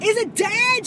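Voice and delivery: high, loud worried question; checking if the bug died; anxious. Retold or imitated. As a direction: dread the answer. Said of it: "and I'm like".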